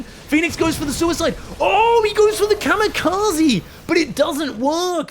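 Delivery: high shouted battle commentary; excited play-by-play. Real, not acted. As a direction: shout the attack as it unfolds. Live call of kamikaze attack.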